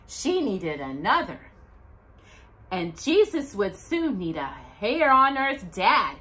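gentle rhyming storybook read; reading a poem to children. Acted. Reading Joseph's poem to Jocelyn and the children, gentle read-aloud. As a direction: read the rhymes warmly to kids.

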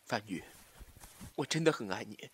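low, soft declaration of love; tender confession. Acted. Tender drunken-dinner love confession. (低声深情告白)

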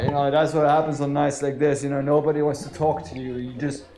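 put-on low, sorry-for-yourself drunk talk; low mock-maudlin barfly; drunken brooding. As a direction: play a lonely drunk grumbling low into the drink. Playing lonely drunk, brooding at bar.

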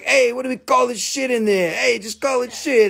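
high, goofy voice of the miners naming the rock; mock Brazilian miners. Joking about the miners who named the rock, in a high mock voice. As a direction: ham up the lazy miners naming it.

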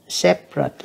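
separate, first syllable stressed, falling end. Shown as a demonstration. Teacher repeating separate for students, first-syllable stress. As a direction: stress the opening of separate and let the rest fall. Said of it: "nhấn âm đầu".

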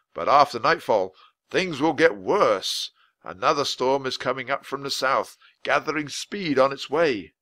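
a hint of a grave official; lightly voiced weather man, worried. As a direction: warn them gently but seriously. Voice of Mister Perkins.

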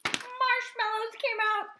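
high, loud, drawn-out announcement; excited reveal. A narrator's reading. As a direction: sing out the silly surprise slowly. Surprise reveal in the story.

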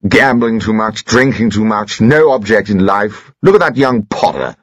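hint of a stuffy old soldier lecturing; pompous husband. Husband grumbles to wife about modern youth, lightly pompous.

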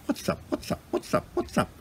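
quick, quiet bird-like twitter; twittering weka. A narrator's reading. Nosy weka scurrying to have a look, twittering. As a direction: chirp it softly in short bursts. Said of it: "the weka twittered".

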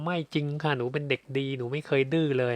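mock indignant little girl denying it; protesting good girl. An adult daughter protesting to the speaker, mock whiny. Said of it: "เดี๋ยวจะมาเถียงพี่ว่า".

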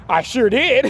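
high cheeky laugh; gloating laugh. Real, not acted. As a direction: laugh like you got away with it.

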